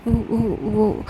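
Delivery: slow, faltering, a touch of fear; mildly shaken halting reply; hesitant stammer. Acted. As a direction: stumble over each word, barely getting it out. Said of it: "Mishka फिर से हक करती".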